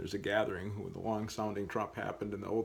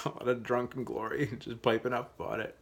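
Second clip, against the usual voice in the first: laughing; 3 dB louder than usual. Real, not acted. Laughing about drunken glory.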